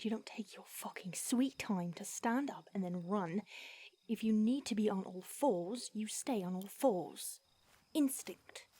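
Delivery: a hint of a fed-up mentor; stern scolding. Vampire mentor scolding the fledgling after the failed pounce, stern.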